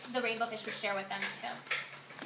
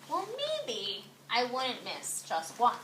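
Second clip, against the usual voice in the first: wavering thought; 3 semitones lower, 9 dB quieter, much slower than usual. A narrator's reading. Rainbow fish thinking to himself.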